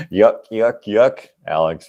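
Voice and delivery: cartoonish yuck-yuck laugh, lightly done; imitating a laugh. Vlogger showing how his friend Alex laughs, light mock chuckle. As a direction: mimic a friend's comic-book chuckle. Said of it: "that's how he laughs".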